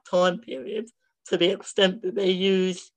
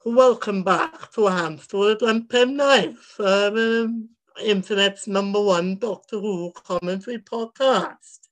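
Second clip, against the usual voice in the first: put-on Welsh accent. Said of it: "that was my Welsh accent".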